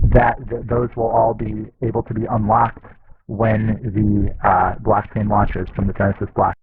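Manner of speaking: muffled, as if speaking underwater; watery bad-connection sound. Real, not acted. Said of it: "sounds more like you're under statically charged water".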